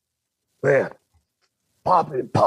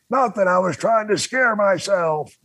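put-on matter-of-fact drunk; 5 semitones higher than usual. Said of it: "He goes".

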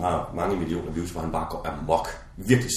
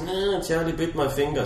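lightly voiced whining child, higher; imitating the boy; 7 semitones higher, slower than usual. Friend retelling the viral clip, lightly imitating the little boy. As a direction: whine it like a hurt little boy.

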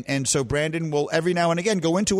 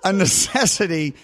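laughing; 4 semitones higher than usual. Real, not acted. Laughing while asking Bubba.

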